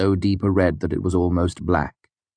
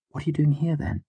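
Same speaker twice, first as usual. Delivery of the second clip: calm gentle; 11 semitones higher, 3 dB quieter than usual. A narrator's reading. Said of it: "a tone designed to calm someone".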